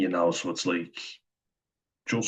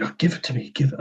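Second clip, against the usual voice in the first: higher, snappy mock of a flustered mum grabbing; imitating rude mum; 6 semitones higher, faster than usual. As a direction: mimic the mother rudely demanding it back, pitched up. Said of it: "and really rude".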